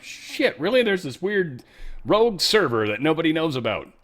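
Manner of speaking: high startled "Shit" settling into amazement; imitated surprise at a rogue server; mock shocked discovery. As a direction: stumble on a hidden server, half amused. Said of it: "and you're like".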